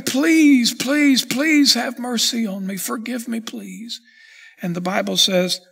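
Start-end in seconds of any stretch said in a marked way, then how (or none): 0.0-4.0 desperate pleading. Acted. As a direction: plead for his life, dying away to a whispered please. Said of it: "He was pleading for his life".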